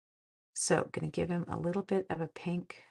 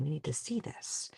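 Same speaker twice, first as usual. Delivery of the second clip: whisper; 3 semitones lower, 9 dB quieter than usual. Retold or imitated. Aside in retold story.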